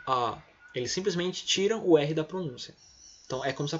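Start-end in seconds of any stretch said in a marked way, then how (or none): 0.1-0.4 "A" held long with no R; non-rhotic British vowel. Shown as a demonstration. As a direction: drop the R and stretch the "A". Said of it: "eles falam A".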